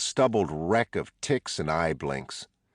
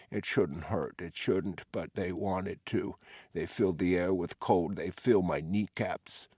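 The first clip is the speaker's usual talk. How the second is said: lightly voiced disturbed patient; 5 dB quieter than usual. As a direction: mumble like a man lost in his own complaint. Ken rambles about cold feet.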